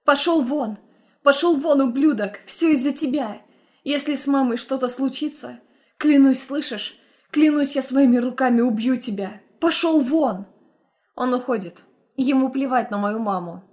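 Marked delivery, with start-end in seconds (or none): 0.1-10.5 loud, raised voice ordering him out; furious shouting. Acted. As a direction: throw him out in rage. Driving ex-husband out.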